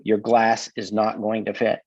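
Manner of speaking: slow, spelled-out "not going to fit"; emphatic. Retold or imitated. Glazier reciting his warning document to customers, slow and emphatic. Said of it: "in capital letters".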